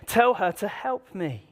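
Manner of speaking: Martha's plea. Retold or imitated. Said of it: "she decides to interrupt Jesus".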